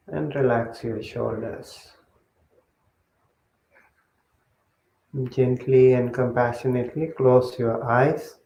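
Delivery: measured meditation guidance with long pauses; guided meditation. Real, not acted. Monk settling the group into breath meditation, guided meditation voice. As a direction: guide them step by step, leaving long silences.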